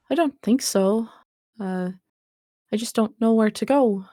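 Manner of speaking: put-on high, sweet old lady voice; a frail granny waking, high and gentle. Dead granny greets the stranger, in a high sweet old voice.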